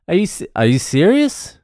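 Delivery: badly faked anger full of happiness; fake annoyance, real joy. Shown as a demonstration. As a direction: act annoyed while barely hiding glee. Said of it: "the truth came out in my voice. It was just sheer joy".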